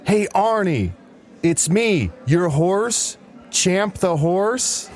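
high, drawn-out horse calling Arnie; weird calling voice. Acted. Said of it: "Why am I talking like this?".

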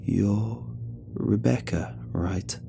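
gently hesitant question, softening at the end; quiet and warm. A narrator's reading. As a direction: speak tenderly, pausing between the words. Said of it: "he spoke quietly and warmly".

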